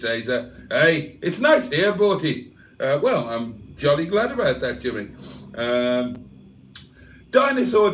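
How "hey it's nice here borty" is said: put-on Scottish accent. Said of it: "who is Scottish".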